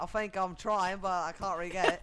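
shaky attempt at an Australian accent; muddled Australian accent. Shown as a demonstration. Gamer told to stay Australian, muddled Australian accent. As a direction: mix Australian with something else, unsuccessfully. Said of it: "It's like a mix between Australian and something else".

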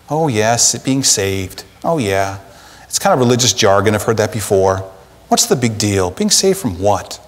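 lightly voiced shrug, so what; dismissive shrug. Preacher mocking indifferent churchgoers, a low dismissive shrug.

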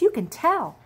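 a hint of bunny squeak. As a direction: say it knowingly like a small rabbit. Grace the bunny adds.

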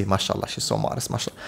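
quietly mocking admirer; sarcastic brothers. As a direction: hush it like fake pious praise. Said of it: "the brothers are gonna see".

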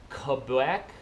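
"Quebec" with rising tune; Canadian accent, lift the end of "Quebec"; practising Canadian accent. Shown as a demonstration. Vlogger practising "Quebec", Canadian accent, rising. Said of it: "I'll practice".

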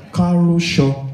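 "Karosho" sounded out syllable by syllable; say-after-me demo. Shown as a demonstration. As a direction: teach "Karosho" for repeating. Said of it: "you say it after me".

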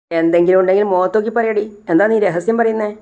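a touch of indignant suspicion; acted suspicious challenge. Patient challenging a woman for telling secrets, mildly suspicious.

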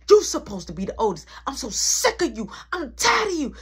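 imitated angry scolding, rising in pitch; mother's rage. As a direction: build from stern to loud exasperation. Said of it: "having this rage in me".

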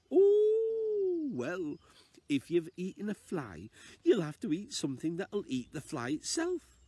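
put-on a wise old lady advising, sing-song. Old lady tells the man to swallow a spider, high voice. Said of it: "my best old lady impression".

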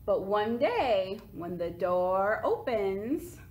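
lively picture-book read-aloud; reading to children. A narrator's reading. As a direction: read it to little kids, with bounce.

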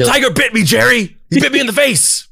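high, squealing mock outrage; hammed-up comic complaint. Tiger victim complaining to Jerry, hammed-up high wail. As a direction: wail it far up high like a sitcom whiner.

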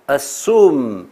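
assume, drawn out on the second syllable; dictation-style careful assume; slow model pronunciation. Shown as a demonstration. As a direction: say assume slowly with a short schwa first. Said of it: "短音的呃".

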